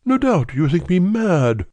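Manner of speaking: a desperate man blurting out; distraught visitor voice. A narrator's reading.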